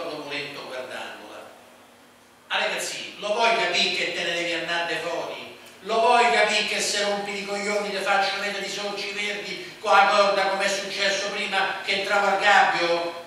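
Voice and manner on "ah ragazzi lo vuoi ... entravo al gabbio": loud threatening shout. A narrator's reading. Man turning on the boy, shouting threats. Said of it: "gridò l'uomo".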